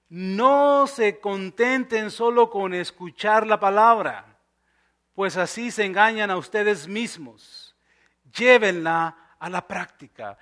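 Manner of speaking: slow, measured Bible reading; scripture reading. Acted. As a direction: read the verse out slowly and deliberately. Reads scripture aloud.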